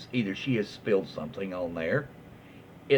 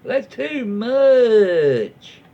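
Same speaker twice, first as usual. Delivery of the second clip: higher, louder, dragged-out indignant gasp of a mother; outraged mother; 8 semitones higher, 7 dB louder, much slower than usual. Retold or imitated. The entitled mother balking at the upholsterer's price, slow and outraged. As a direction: stretch it out like an appalled, entitled mum. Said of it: "Tell the mother".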